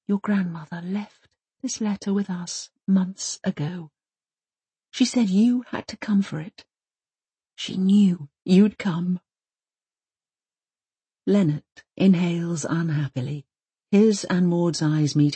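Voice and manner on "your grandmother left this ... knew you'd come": softest voice. Acted. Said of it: "in the softest voice possible adds".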